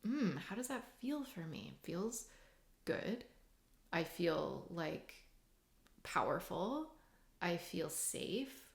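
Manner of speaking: calm self-assurance. Shown as a demonstration. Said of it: "if that's the example".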